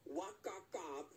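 Backkakao reversed, slow and strange; backwards speech. Shown as a demonstration. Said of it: "bitte jetzt". (Backkakao rückwärts, langsam)

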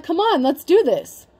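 hammed-up fired-up dare; pumped for a fight. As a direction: egg them on, ready to go. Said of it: "And you're like".

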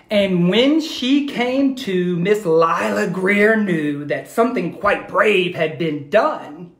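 put-on rhythmic read-aloud for kids; lilting rhyming storyteller voice; story narration. A narrator's reading. Teacher reading a rhyming story to her class, lilting.

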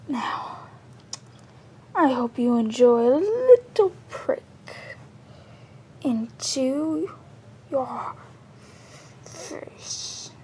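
menacing threat. Acted. Assassin threatens before striking.

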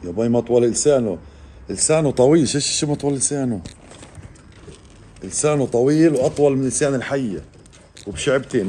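real excited marvelling; amazed. Real, not acted. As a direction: exclaim in wonder at the creature. Amazed at the lizard's long tongue.

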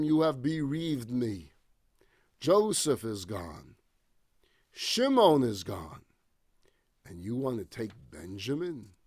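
Jacob reproaching his sons in sorrow; grieving old father. Acted.

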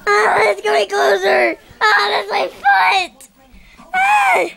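screaming at a spider. Pretend. Beanbag getting closer, screams.

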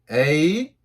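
letters read slowly, one by one; slow alphabet drill for repeating. Shown as a demonstration. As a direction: draw out each letter and pause after it. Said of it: "천천히".

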